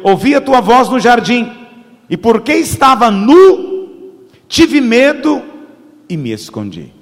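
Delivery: measured, emphatic Bible reading; scripture reading. Acted. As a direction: read the passage out to a congregation, building in force. Reads scripture aloud to congregation.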